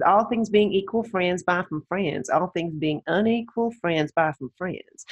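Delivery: slow, drawn-out imitation of a Southern coach; a lightly done Southern US accent, unhurried; slow, light Southern drawl; bad Southern accent. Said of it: "please excuse me, everyone, for my bad Southern accent".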